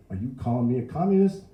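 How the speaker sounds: high, loud indignant challenge; outraged cop's question; affronted policeman. A narrator's reading. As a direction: demand it, offended. Policeman challenges the old man.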